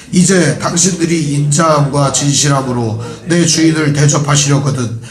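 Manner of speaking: measured, steady reading of scripture. Acted. Pastor leading the congregation through the verse, steady scripture reading. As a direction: read the verse aloud with the church.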